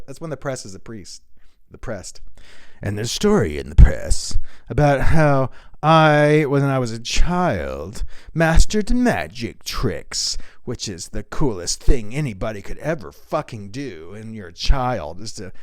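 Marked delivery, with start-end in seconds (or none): 2.8-13.1 lightly voiced, slowing on magic tricks; smug brag; Elon Musk impression. Comic voicing Musk bragging about his childhood, lightly. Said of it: "here's Elon Musk".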